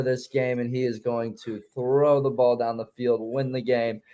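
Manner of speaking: put-on careful, laboured British accent. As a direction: stay doggedly in British character. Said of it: "Don't break character".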